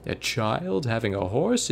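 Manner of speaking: slow, lightly voiced old-fashioned man; a hint of a scoffing olden-days reenactor; old-timey voice. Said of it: "in, like, his old-timey voice".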